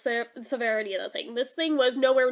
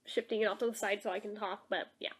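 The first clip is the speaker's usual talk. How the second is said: talking around a cough drop; words slurred round a lozenge; cough drop in mouth; 2 semitones lower than usual. Real, not acted. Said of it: "excuse the cough drop in my mouth".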